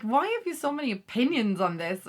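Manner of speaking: mock-exasperated question with swooping pitch; exasperated partner. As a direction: play the fed-up partner, lightly.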